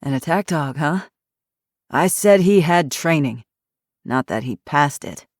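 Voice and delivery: put-on hoarse, grumpy old ex-cop; gruff old man. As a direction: growl it like a surly old man. Grumpy retired cop speaks.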